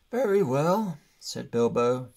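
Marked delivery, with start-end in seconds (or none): 0.1-1.0 louder, clipped annoyance; offended, giving up; downcast and annoyed. A narrator's reading. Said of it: "very downcast and also rather annoyed".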